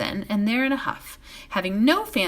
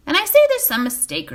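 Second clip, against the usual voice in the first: higher, louder, insistent repeat of "there's"; 9 semitones higher, 8 dB louder than usual. A narrator's reading. Butterbur repeating himself over Mugwort, louder. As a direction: hammer "there's" home. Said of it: "repeated Butterbur".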